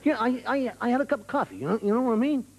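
put-on American accent, stumbling repeat; insistent American. American repeats himself to baffled listener, insistent American accent. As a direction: press the trivial point as an American. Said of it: "the Americans".

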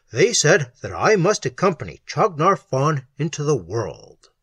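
emphatic, heavily stressed account; intense recounting. A narrator's reading. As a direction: hammer out the key words. Victim begins his dreadful account.

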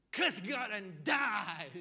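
loud, slow, spat-out command; nagging wife blasting her husband; wife's outburst. Retold or imitated. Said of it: "Missus Job says to Mister Job".

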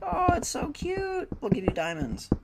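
very high, slow cute squeal; cutesy girly voice. Pretend. Imagined game spirits cooing at the gamer, high and cute. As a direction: gush like a sweet little fan. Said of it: "they'd be like".

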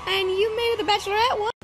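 can't believe what just happened; shocked disbelief. Real, not acted. Viewer stunned by the Bachelorette pick, in shocked disbelief. Reacts to surprise Bachelorette news.

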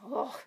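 exasperated ugh. A narrator's reading. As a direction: groan "ugh" at your own slip. Groan at the blunder in story.

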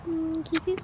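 quiet kisses; soft kisses. Real, not acted. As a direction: coo the word kisses softly. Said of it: "repeats kisses softly then loudly".

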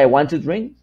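"want to" left uncontracted; full form. Shown as a demonstration. Teacher allowing the optional long form, full "want to". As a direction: keep "want to" as two words. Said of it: "Si usted quiere".

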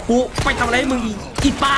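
mock outrage with a rising end; exasperated complaint. Real, not acted. (ประชดโวยวายเสียงสูงขึ้นท้าย)

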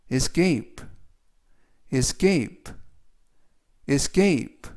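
escape with the stress on cape, es-CAPE. Shown as a demonstration. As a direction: hit the A in escape. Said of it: "A의 강세가 있습니다".

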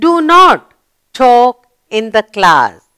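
slow, firm reading with stress on not; slow read-aloud. Shown as a demonstration. Teacher reading the final sentence to pupils, slowly. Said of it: "The sentence is complete".

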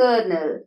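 "കേർണൽ" like English "kernel"; model pronunciation. Shown as a demonstration. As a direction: put an r sound in "കേർണൽ". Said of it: "pronounce ചെയ്യുന്നത് എങ്ങനെയാണ്". ("കേർണൽ", ആർ ശബ്ദത്തോടെ)

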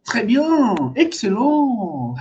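drawn-out, admiring praise; praising someone. Shown as a demonstration. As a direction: praise a student, stretching each last syllable. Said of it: "utiliser ça aussi pour élogier quelqu'un". (éloge admiratif, syllabes finales allongées)

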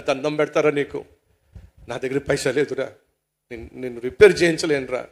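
low, soft begging; subdued, beaten-down appeal; meek pleading. Acted. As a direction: plead helplessly with an angry friend. Culprit begs, has no money.

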